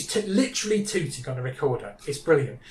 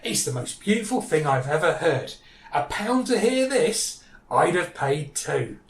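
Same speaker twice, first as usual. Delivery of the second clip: slow, lightly acted rapture; measured mock admiration, drawing out the praise; awed audience; slower than usual. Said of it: "And the audience says".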